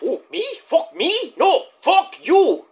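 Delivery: rising into a high yelled retort; mock comeback. Rush shouting back at Mox, hammed-up. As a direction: act the outraged wrestler firing back. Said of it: "Rush just like".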